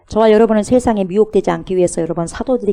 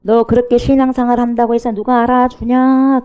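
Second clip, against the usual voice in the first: louder, higher needling taunt; taunting jeer; 4 semitones higher, 5 dB louder than usual. Retold or imitated. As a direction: jab at the believer's pride. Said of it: "그러면서 속을 뜩뜩 긁습니다".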